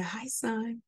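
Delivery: faint strained greeting from a hospital bed; weak voice, tube in throat. Retold or imitated. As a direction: talk as if a tube is down your throat. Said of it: "Ma, why do you sound like that?".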